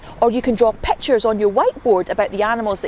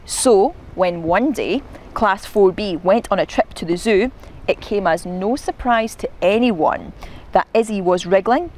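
measured picture-book reading; story narration. A narrator's reading. Narrator sets up Izzy's zoo trip, storytelling voice. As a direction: tell it to children, relishing each verb.

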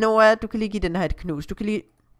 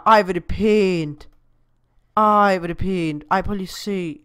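drawn-out, slow admiration; admiring; 4 dB louder than usual. Real, not acted. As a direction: linger on the words in wonder. Admires the lit game scene. (langtrukken beundring)

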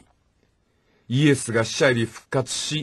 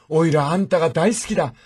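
mock crying out; 6 semitones higher than usual. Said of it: "三回叫びました".

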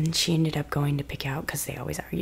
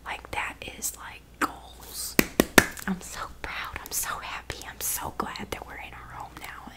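softer unvoiced whisper; tender hushed whisper; soft ASMR whisper; 3 dB quieter than usual. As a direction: whisper thanks close and quiet.

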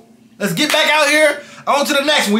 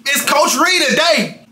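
coach announcement; 3 semitones higher, slower than usual. Pretend. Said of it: "I'm in coach mode today".

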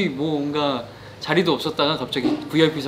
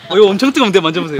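excited; 3 semitones higher, 10 dB louder, faster than usual. Real, not acted. Excited about hot seat.

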